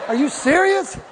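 ordinary talk, nothing marked

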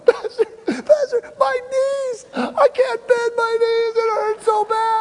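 very high, mock-sobbing plea; imitating crying. Jack crying to the pastor about his knees, mock sobbing. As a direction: wail it like a hurting boy. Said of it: "He's crying".

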